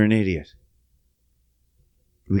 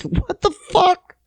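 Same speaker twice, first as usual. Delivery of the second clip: laughing disbelief; 14 semitones higher than usual. Retold or imitated. Laughing at friend's rain joke.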